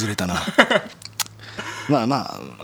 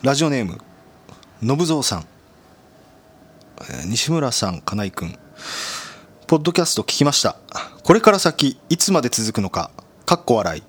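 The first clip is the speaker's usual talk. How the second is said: reading listener mail. Real, not acted.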